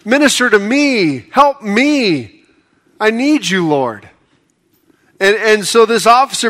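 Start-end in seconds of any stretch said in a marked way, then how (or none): 0.0-4.1 slow, earnest higher-pitched plea; pleading prayer. Retold or imitated. Believer crying out to God for rescue, earnest plea. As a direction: beg God for help, slowly. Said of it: "cried out to God and said".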